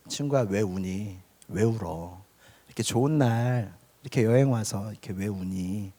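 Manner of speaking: softly consoling a crying friend; hushed, tender coaxing of a weeping friend; soothing a friend. Retold or imitated. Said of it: "이렇게 달래주었어요".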